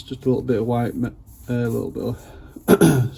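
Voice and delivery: words slurred by slipping dentures; loose dentures. Real, not acted. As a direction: talk with loose false teeth. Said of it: "sorry, put my teeth back in".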